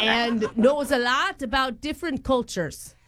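badly faked Irish accent; put-on accent. Prank caller cites Natalie's recommendation, in fake Irish. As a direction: keep up the mock Irish accent. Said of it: "flow in and out of different accents".

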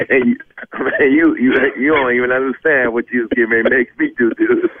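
words breaking into laughs; laughing. Real, not acted. Prank victim laughing at the caller, talking through laughs.

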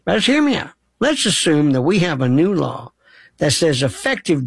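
hint of a folksy old lawyer laying out a hypothetical; old professor's accent. Caller imitates his law professor, a light folksy old-lawyer voice. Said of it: "And he had this old accent. He talked like that".

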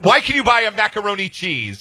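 mock Kiwi tourist in a New Zealand accent; lightly imitated New Zealand accent. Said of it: "he says in his New Zealand accent".

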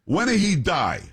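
high-pitched mock Italian accent; thick Italian accent. Italian woman brazenly asks about the grandfather, mock thick Italian accent. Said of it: "with a thick, uh, um, Italian accent".

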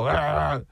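short imitated animal growl; little growl of a shaking animal; alligator shake noise. Imitating an alligator shaking its prey, growl. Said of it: "alligator do that little".

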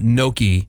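GNOCCHI with a plain n, "no-kee"; mispronunciation. Shown as a demonstration. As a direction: drop the y sound: "gnocchi" as "no-kee". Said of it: "It's not gnocchi".

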